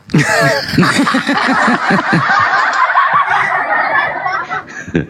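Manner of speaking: high-pitched, drawn-out laugh; high, sustained cackle; long laughter. Real, not acted. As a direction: burst out laughing at length. Laughs after own joke.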